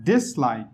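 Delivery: DIS in dislike stressed over like; primary stress on DIS, weaker on like. Shown as a demonstration. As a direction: lean on the first syllable, DIS-like.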